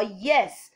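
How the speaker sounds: "yes" as a demo of rising tone. Shown as a demonstration. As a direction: lift the pitch on "yes". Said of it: "rising tone".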